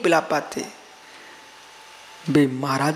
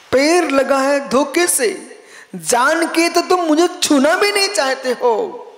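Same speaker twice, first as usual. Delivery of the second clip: higher, louder aggrieved skull voice; talking skull; 9 semitones higher, 4 dB louder than usual. Acted. Skull reproaching the man who kicked it, higher and louder. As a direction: give the skull a shrill complaining cry. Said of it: "खोपड़ी क्या बोल रही है".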